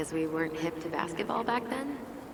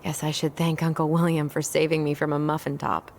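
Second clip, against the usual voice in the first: loud; 8 dB louder than usual. Acted.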